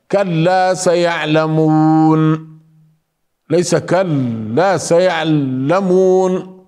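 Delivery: كلا سيعلمون said slowly, every letter clear; clean recitation. Shown as a demonstration. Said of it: "لا نتوقف".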